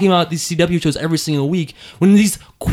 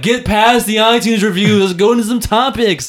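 raised, urgent mock complaint; impatient listeners; 4 semitones higher than usual. Host voicing listeners who want topics, impatient. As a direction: hurry them along as a fed-up listener.

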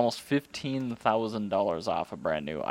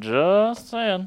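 higher, drawn-out "just saying"; teasing; 9 semitones higher, 4 dB louder than usual. Real, not acted. Co-host needling the Honda fan, teasing. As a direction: needle them with a singsong aside. Teasing repeat of his own interjection.

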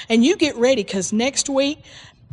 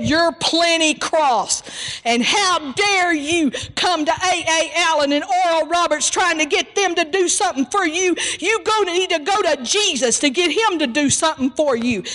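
higher, heated mock rebuke; retold tongue-lashing; 6 semitones higher than usual. Evangelist scolds the woman for chasing ministers, heated. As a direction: let into her, pitch climbing. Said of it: "And he let into her".

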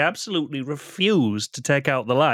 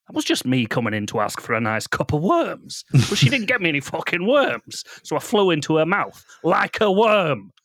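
Babadook voice. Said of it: "you've nailed this voice".

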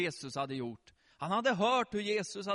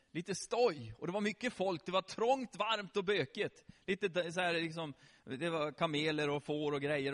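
usual speaking voice

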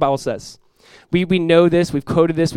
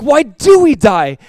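put-on toddler's question; 8 semitones higher, 9 dB louder, much slower than usual.

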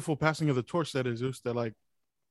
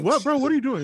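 higher, louder baffled protest; startled confusion; 11 semitones higher, 6 dB louder than usual. Retold or imitated. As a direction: sound thrown off and confused. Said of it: "They're like".

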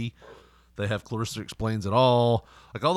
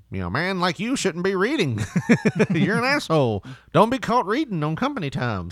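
scolding boss; 7 semitones higher than usual. Retold or imitated. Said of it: "his boss at the bank is like".

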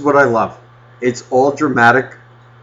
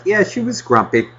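calm and simple. Retold or imitated. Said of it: "it's just like".

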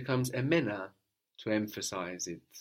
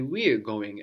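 "We're" said louder than the rest; stress on WE'RE; 4 dB louder than usual. Shown as a demonstration. Teacher modelling an emphatic we, stress on "We're". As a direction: lean on "We're" with extra weight. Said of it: "emphasizing the word for we".

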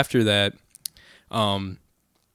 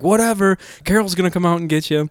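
higher-pitched imitated taunt; lightly acted, pitched-up brush-off; mock dismissive warning; 7 semitones higher than usual. Zach warning drunk guys about mom, dismissive taunt.

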